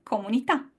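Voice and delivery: comunità with a dry k; Italian k, no air. Shown as a demonstration. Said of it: "Can you feel the difference".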